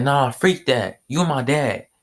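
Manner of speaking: mock-outraged son scolding his father; indignant outburst. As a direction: push the words out fast, fed up with him. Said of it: "He said".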